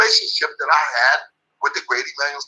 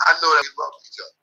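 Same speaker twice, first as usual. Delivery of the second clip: fast, voice cracking with feeling; real welling emotion; emotional declaration; faster than usual. Real, not acted. Remembering his late trainer, voice cracking.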